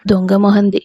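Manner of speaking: whispered, scornful aside; Krishna whispering a dig at Lavanya; muttered insult. Acted. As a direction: hiss the insult under your breath. Insulting the girl who rejected.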